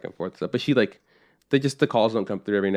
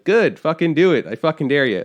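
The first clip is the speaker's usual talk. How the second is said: louder, higher mock challenge; mock dare; 5 semitones higher, 5 dB louder than usual. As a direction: throw down a joking dare. Retold defiant reply to dad.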